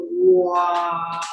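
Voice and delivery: soft stunned wow; awed wow. Retold or imitated. Newcomer just hired for next week, quietly amazed.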